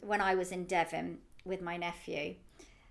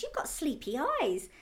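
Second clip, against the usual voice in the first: imitating a child; 7 semitones higher than usual. Child repeated by aunt.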